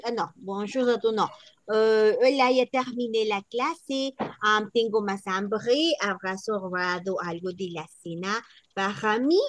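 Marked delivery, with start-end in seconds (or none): 0.4-1.1 French greeting, broken off; practising a French accent. Pretend. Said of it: "que llevan acento gutural". 2.2-9.4 Spanish with a guttural French r; playful French-accented Spanish. Pretend. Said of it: "que llevan acento gutural".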